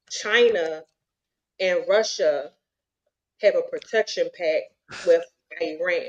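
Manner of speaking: a hint of a Bronx accent. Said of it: "It's in my Bronx voice".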